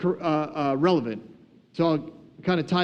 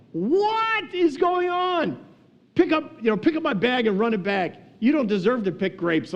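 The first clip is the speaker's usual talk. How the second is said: hammed-up incredulous protest, pitched way up; mind blown; 7 semitones higher than usual. Early workers seeing latecomers hired at five thirty, mind blown. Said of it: "their minds have to be absolutely blown".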